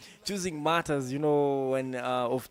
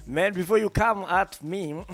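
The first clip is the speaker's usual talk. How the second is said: loud playful protest; 7 semitones higher, 7 dB louder than usual. Real, not acted. DJ laughs, defends himself to listeners.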